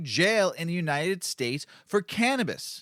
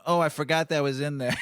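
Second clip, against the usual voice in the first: mock kid excuse; 2 semitones lower than usual. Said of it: "what I used to my parents when I was twelve years old going".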